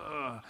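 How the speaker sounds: low-key, soft "ugh"; mild mock-disgusted groan. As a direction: imitate a quiet groan of distaste. Wife's reaction to the shirt.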